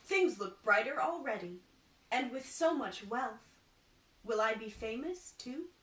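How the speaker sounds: bubbling with hope; eager carpenter. Acted.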